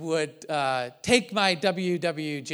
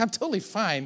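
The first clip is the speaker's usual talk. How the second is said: pointedly passive-aggressive tone, pitched higher; 5 semitones higher than usual. Retelling his own reply during an argument: acting passive-aggressive. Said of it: "That's very passive aggressive. Like".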